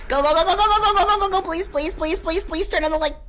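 high, laughing nervous go go go; real panic begging the game; nervous high pleading; frantic pleading. Real, not acted.

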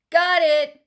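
loud, high shout of victory; a kid's loud winning shout; triumphant shout. A narrator's reading. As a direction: yell it like you just won. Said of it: "just as Kyle shouted".

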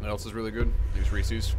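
talking while chewing candy; mouth full. Real, not acted. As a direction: say it around a mouthful. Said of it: "What are you eating?".

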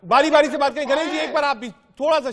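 firm, loud appeal for order; calling for order. Real, not acted. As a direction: cut loudly through the arguing panel.

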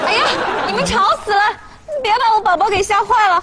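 high-pitched, protective rebuke; cross scolding. Acted. Telling noisy friends not to scare baby, cross.

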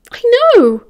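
high, loud retort; annoyed snap. A narrator's reading. Sirius cutting back at his lecturing friend, annoyed snap. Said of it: "Sirius snapped, getting annoyed now".

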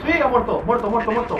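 loud, high victory cheer; excited cheer. Real, not acted. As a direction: celebrate the kill out loud. Celebrating a kill.

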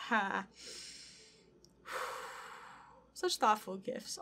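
ordinary talk, nothing marked

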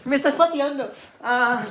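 yelping between laughs; high squeals while tickled; being tickled. Real, not acted.

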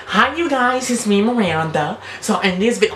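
high, exaggerated imitation of a YouTuber's greeting; mocking YouTuber impression. Reactor showing how the YouTuber talks, high mocking impression. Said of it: "This is how she talks".

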